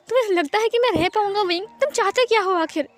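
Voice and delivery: upset confrontation. Acted. Hurt husband confronting Wing, upset and high-voiced. Upset partner demands an answer.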